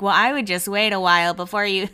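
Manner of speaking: lightly imitated reality-show coworker; gently mocking unsolicited advice; a hint of her voice; imitating her talk. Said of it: "that's kinda how she talks".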